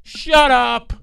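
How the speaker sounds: yelled twice, high and loud; loud shut up; shout. Acted. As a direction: bark it at the camera. Shouting opener.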